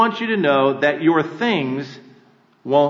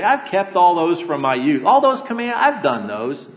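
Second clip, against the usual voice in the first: arrogant boast; 2 semitones higher than usual. Retold or imitated. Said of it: "has the arrogance to say".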